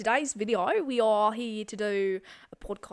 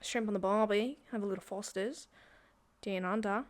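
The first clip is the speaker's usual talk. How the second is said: mock Australian; 5 dB quieter than usual. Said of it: "how to do an Australian one".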